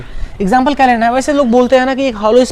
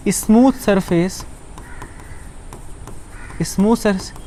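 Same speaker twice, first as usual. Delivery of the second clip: slow dictation; 2 semitones lower, 7 dB quieter, much slower than usual. Shown as a demonstration. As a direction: dictate so they can write. (धीरे-धीरे बोलकर लिखवाना)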